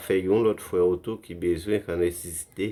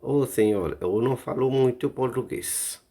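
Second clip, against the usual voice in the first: pleading tourist; 5 semitones higher than usual. Pretend. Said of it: "ki so kapab di".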